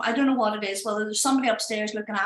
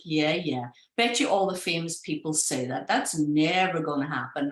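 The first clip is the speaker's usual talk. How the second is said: lower, doubting mutter; sceptical; 5 semitones lower than usual. Retold or imitated. Doubting the famous man's promise, lower sceptical tone. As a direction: brush it off, lower and unconvinced. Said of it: "And I was like".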